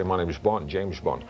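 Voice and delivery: shallow, thin Connery imitation without depth; bad Sean Connery. Shown as a demonstration. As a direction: do the Connery everyone does, lacking depth. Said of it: "they speak like that".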